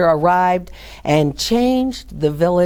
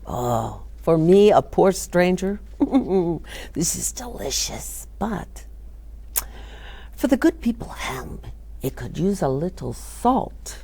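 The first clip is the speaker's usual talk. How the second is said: sly hint; 6 dB quieter than usual. A narrator's reading. Stranger sly tasting.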